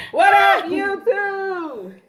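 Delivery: high, laughing mock greeting. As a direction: squeal it with a laugh. Mom echoes the greeting.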